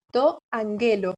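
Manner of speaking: angelo stressed on GE, the middle syllable; accent moved along. Shown as a demonstration. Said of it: "corre un lugar el acento".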